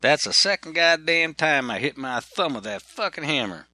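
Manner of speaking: a fed-up worker cursing his hammer; angry cursing. Retold or imitated. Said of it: "He said".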